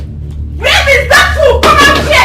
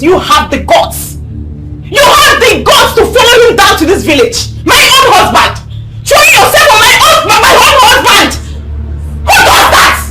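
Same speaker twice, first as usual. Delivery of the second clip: bitter accusation; 3 semitones higher than usual. Acted. Wife accusing husband's pursuer.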